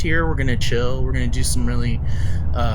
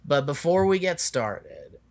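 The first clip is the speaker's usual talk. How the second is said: soft meditation voice; 3 semitones lower, 9 dB quieter than usual. Acted. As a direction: ease into a calm guiding tone. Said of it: "lead a quick meditation".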